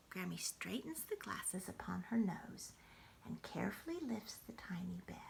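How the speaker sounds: hushed bedtime reading without voice; whispered bedtime story. Acted. Grandmother whispering a bedtime story to the grandchild. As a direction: whisper the story to a sleepy child.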